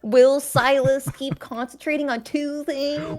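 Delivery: slow, lifted cliffhanger question; TV announcer voice. Pretend. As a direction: tease the next episode. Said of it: "tune in until after the commercial break".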